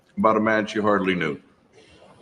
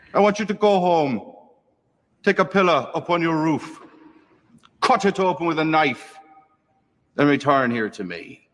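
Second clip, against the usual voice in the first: stern priest; 5 semitones higher than usual. Acted. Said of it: "says O'Rourke".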